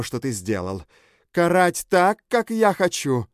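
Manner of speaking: a mother taunting her daughters' killer; vengeful Bella. Acted. Bella threatens the kneeling man, rising menace. Bella confronts the captive narrator.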